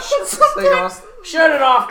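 high, loud laughing plea; cracking up while begging. Real, not acted. Laughing plea after awkward gaffe.

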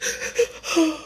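high, gasping sob; choked sob. A narrator's reading. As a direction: sob and gasp for breath. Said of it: "sobs choked his voice".

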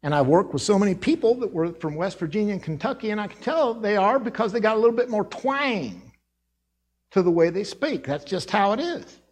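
light West Virginia and Kentucky twang; twangy Appalachian accent. Shown as a demonstration. Preacher shows how Rittman mill workers talk, light Appalachian twang. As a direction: add a little Kentucky twang. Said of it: "the accent that's like this".

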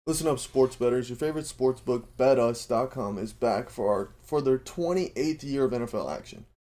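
punchy sportsbook ad voice; ad read. Acted. Host pitching the sportsbook to sports bettors, punchy ad read. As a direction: hype it up for the bettors. Reads sponsor ad.

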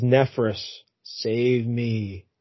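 low, soft, croaking mummy plea; a hint of a dying mummy begging; lightly voiced mummy plea. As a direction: groan it out like a half-dead mummy. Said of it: "And he says".

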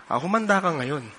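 joking threat, then laughing it off; mock threat. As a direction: pretend to menace the waitress. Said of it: "joke lang". (pabirong banta)

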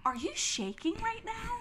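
mock worried friend. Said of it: "she leans over, she said".

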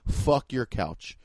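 slow and flat, meaning it for real; dead serious. Shown as a demonstration. Comic telling the couch owner off, slow and dead serious. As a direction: fuck your couch said slow and low, no joke in it. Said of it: "but for real".

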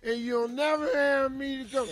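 put-on whiny, self-pitying drunk; sob-whine like a sad drunk; drunk crying. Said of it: "the woe is me crying drunk".

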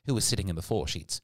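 ordinary delivery

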